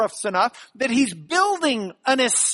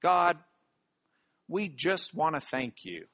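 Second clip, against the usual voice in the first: mock prayer voice; 6 semitones lower, 6 dB quieter than usual. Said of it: "how many people in their prayers do it like this?".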